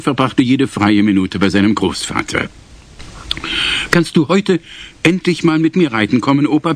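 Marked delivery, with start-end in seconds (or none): 3.9-6.7 put-on high, pleading little boy; a small boy begging his grandpa; five-year-old begging grandpa to ride with him, higher. A narrator's reading. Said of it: "bettelte er".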